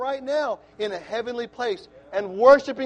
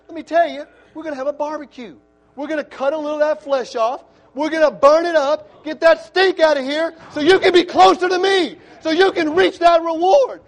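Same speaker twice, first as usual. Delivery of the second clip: loud, high, rising proclamation of God's words; preacher speaking for God, louder and higher as it builds; voicing God; 5 semitones higher, 10 dB louder than usual. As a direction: thunder it as God promising the burn-off. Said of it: "This is God saying".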